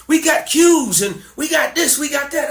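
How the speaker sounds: imitating musician partners. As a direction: lightly mimic musicians showing off their gear. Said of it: "they're telling me".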